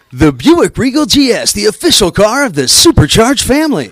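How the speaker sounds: punchy TV car-ad read over music; booming car commercial voice; car commercial announcer. Shown as a demonstration. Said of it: "a real fun one was".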